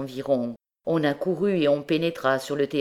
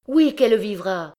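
voice broken by tears; 6 semitones higher, 5 dB louder than usual. Acted. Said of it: "d'une voix que ses pleurs entrecoupaient".

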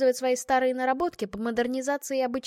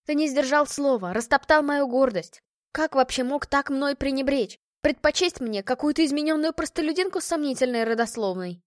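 indignant accusation; 4 semitones higher, 4 dB louder than usual. Acted. Bride accuses fiancé.

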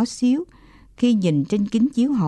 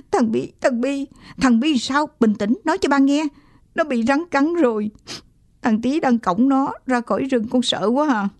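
put-on crying child; 5 semitones higher than usual. A narrator's reading. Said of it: "Tôi bắt đầu khóc to".

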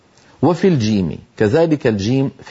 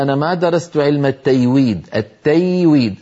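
التيويد with y for jim; Gulf dialect student. Retold or imitated. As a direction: imitate the student's tayweed. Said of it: "قال لي أحد الطلبة". (لهجة شرق الجزيرة بقلب الجيم ياء)

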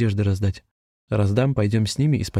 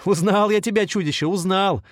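laughing; 10 semitones higher than usual. A narrator's reading. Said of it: "засмеялся Володя".

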